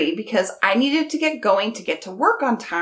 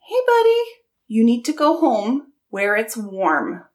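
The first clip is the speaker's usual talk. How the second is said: coaxing pheasant. Retold or imitated. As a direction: coax the bird home gently.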